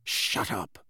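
low, quiet growl. A narrator's reading. Moody cutting Harry off, growled. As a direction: growl it as a grizzled wizard. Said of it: "Moody growled".

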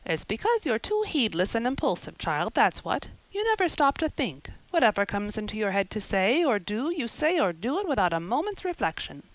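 brisk village busybody telling her news; lightly voiced gossipy neighbour. Neighbour gossiping about the trouble, lightly voiced and knowing. Mrs Lynde lecturing Anne.

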